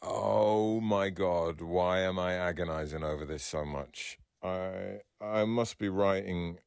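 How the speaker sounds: drawn-out, weary exasperation; stressed. Real, not acted. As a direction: agonize slowly over the task with hesitant pauses. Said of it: "Can you hear the stress in my voice?".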